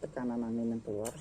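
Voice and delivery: speaking through a face mask; muffled by a face mask. Real, not acted. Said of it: "Ini saya pakai masker jadi agak susah untuk ngomong".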